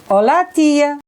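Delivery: a hint of a young boy calling auntie. Speaker imitates the boy's voice greeting her, lightly boyish. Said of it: "Used to say".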